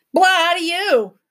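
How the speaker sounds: yelled back. A narrator's reading. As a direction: yell it back at the creature. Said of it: "yelled back".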